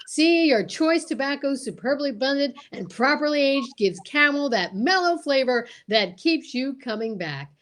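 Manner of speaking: announcer pitch with hammed-up enthusiasm; ad read. The speaker reads a mock Camel ad to listeners, salesy. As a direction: sell it like a radio pitchman.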